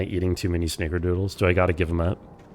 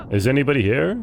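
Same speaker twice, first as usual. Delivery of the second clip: mimicked game-hero call, a bit higher; lightly mocked searching question, pitched up; Alan Wake; 4 semitones higher, 4 dB louder than usual. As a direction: imitate someone calling into an empty place. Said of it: "the way that Alan Wake went".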